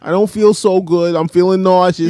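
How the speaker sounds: lightly voiced queasy goofball; mimicked movie character. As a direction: imitate his dopey complaint. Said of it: "that's exactly what he sound like".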